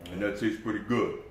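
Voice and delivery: talking while tasting, mouth half full; tasting off spoon. Real, not acted. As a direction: speak around a taste of food. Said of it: "I'm tasting that".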